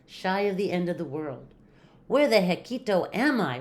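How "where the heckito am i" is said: raised, louder puzzled exclamation; wondering aloud. A narrator's reading. Kitten arrives at a strange shack, wondering aloud. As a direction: wonder out loud in mild bewilderment. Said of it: "wondered Scapito aloud".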